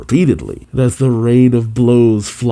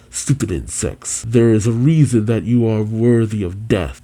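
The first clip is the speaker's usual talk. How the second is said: calm and cool. Acted. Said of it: "still very calm and cool".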